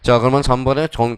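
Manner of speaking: usual speaking voice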